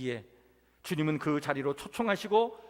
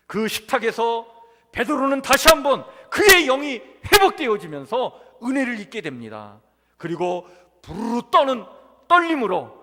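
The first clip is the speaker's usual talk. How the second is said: raised, emphatic pulpit voice; forceful preaching; 4 semitones higher, 9 dB louder than usual. Acted. Preacher telling of Peter's restoration, forceful and emphatic. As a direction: preach it out loud, punching the key words.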